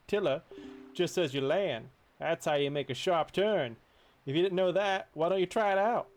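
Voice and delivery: breezy game-fish helper; fish guide. Acted. Reads the fish character's lines.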